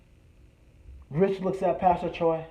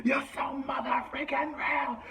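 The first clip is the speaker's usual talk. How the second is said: ecstatic fan shout; 7 semitones higher, 5 dB quieter, slower than usual. Retold or imitated. The speaker jumping up and down, yelling at a rapper. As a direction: yell your devotion while bouncing. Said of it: "the whole time jumping up and down".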